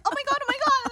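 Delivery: high, panicked mock fretting; mock alarm. Friends fussing over a drunk friend, high mock alarm. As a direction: fret over her like she's dying. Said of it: "we'd all be like".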